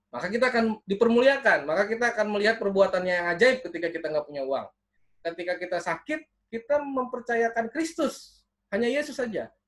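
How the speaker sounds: emphatic preaching. Acted. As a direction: urge the congregation with lifted voice. Preaches on relying on Jesus. (berkhotbah penuh penekanan dengan nada meninggi)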